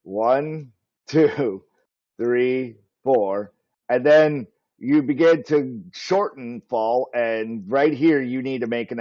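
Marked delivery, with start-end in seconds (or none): 0.0-3.5 numbers dragged out in slow motion. Shown as a demonstration. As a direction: stretch each count like a replay. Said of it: "let me do that in slow mode".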